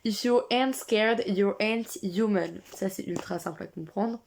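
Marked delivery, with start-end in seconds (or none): 0.0-2.6 slow careful reading in French-accented English; French reader reading English aloud, slow and careful. Real, not acted. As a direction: read the English line slowly with a French accent. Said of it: "Ne jugez pas mon accent".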